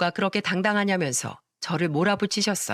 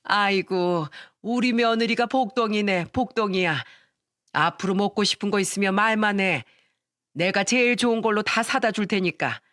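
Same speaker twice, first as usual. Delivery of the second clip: joyful. Acted. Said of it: "기쁜 목소리로 말했습니다".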